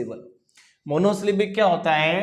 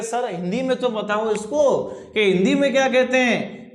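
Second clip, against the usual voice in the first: higher-pitched mock student request; imitated student asking; 5 semitones higher than usual. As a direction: lightly act out a pupil pleading with the teacher. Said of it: "अब कुछ लोग पूछ लेते हैं". (छात्र की नकल, ऊँची आवाज़ में)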